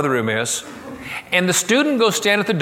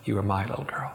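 much softer, lower, barely voiced; hushed tender words; 4 semitones lower, 8 dB quieter than usual. Teacher mouthing the words with the girl, very hushed. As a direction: say it hushed, as if moved. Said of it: "mouthed the words with me".

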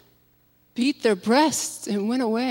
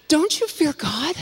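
higher, stern rebuke of the other criminal; sharp rebuke; 7 semitones higher than usual. A narrator's reading. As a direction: scold him sharply. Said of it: "rebuked him sharply".

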